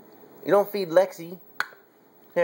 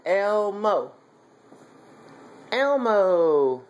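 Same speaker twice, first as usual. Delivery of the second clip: slow, clear demo; 3 semitones higher, much slower than usual. Shown as a demonstration. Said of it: "Can you say Elmo?".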